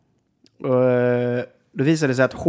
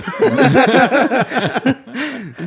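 real laughter, pitched up; loud high laugh; 12 semitones higher, 6 dB louder than usual. Real, not acted. Laughs at own story.

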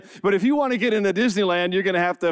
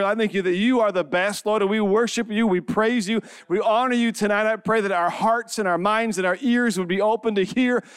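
public prayer; 3 semitones higher than usual. Real, not acted. Leads congregation in prayer.

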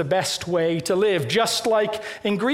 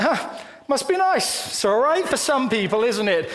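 higher, mock-impressed "Huh, must be nice"; sarcastic envy; 5 semitones higher than usual. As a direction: grudgingly admire a friend's unused Tesla. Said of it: "slightly sarcastic element".

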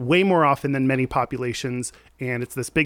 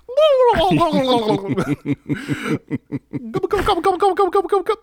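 high, rapid turkey gobble; gobbling turkey voice; 13 semitones higher than usual. Acted. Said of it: "rate my turkey performance".

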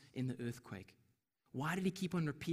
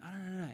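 mock moan; a lightly acted, wordy groan of protest; Elijah; 3 semitones higher, 3 dB quieter, faster than usual. Elijah complaining to God, in a mild moan. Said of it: "Elijah then moans again".

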